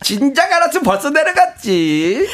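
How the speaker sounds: high-pitched cutesy whine; put-on baby-sweet excuse to mother-in-law; playful aegyo. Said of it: "하면서 이제 애교를 부리신다".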